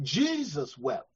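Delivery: low, soft and slow; quiet, slow reverent reading; hushed. Real, not acted. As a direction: let the verse sink in, barely voiced. Preacher reads the verse quietly.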